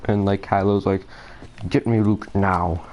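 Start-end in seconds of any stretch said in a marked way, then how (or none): 1.7-2.9 slow, lightly voiced menacing villain demand; a half-hearted go at a dark lord ordering; Kylo impression. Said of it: "I cannot do his impression".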